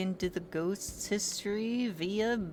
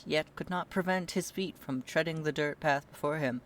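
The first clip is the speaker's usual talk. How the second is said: story narration. Acted. Narrating the hero walking the dirt path toward the place. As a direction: read it like the opening of a tale.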